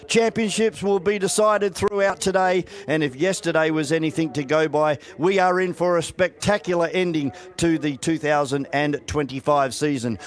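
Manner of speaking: formal public address announcement; announcer voice. Acted. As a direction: read it like a PA announcer. Formal opening of race day.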